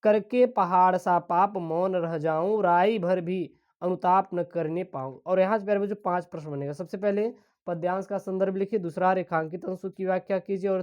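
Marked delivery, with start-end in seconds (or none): 0.0-5.2 poem recitation. Acted. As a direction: recite the verse with measured weight. Continues the poem.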